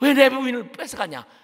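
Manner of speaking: loud, high wailing.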